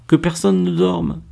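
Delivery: high, thrilled voice; excited exclamation. A narrator's reading. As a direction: exclaim it in delighted recognition. Laure exclaims the translated title excitedly.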